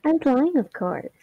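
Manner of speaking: sly, menacing villain; sinister voice. Acted. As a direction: say it like a smug villain. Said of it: "the most sinister voice you've done".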